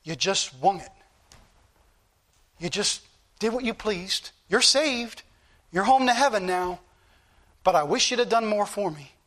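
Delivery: lightly voiced Lord, subdued and measured; the Lord speaking. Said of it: "the Lord look at me and say".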